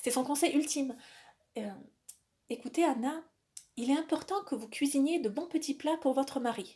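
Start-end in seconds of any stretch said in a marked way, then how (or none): 2.5-6.8 play-acted grave, earnest, utterly serious tone. Retelling a woman's ultimate advice to her, retelling in a very serious tone. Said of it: "avec un grand sérieux".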